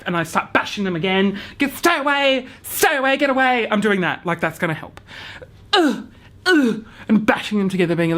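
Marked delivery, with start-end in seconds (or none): 1.6-3.7 higher, half-yelled stay away at the horses; hammed-up shooing of the horses; mock shooing shout. Shooing horses, bashing buckets. 5.7-6.8 high whimpering ugh ugh, fake sob; mock whimper. Scared, mock crying in paddock.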